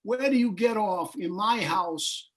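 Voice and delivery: half-hearted repeat of the outburst; mild rant. Acted. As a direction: bartender repeats his gripe. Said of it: "what he's saying is".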